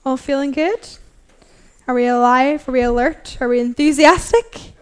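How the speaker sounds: bright rising questions to wake the room; hyped-up call to crowd. Real, not acted. Pastor rallying her congregation, upbeat rising calls. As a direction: pump up the congregation.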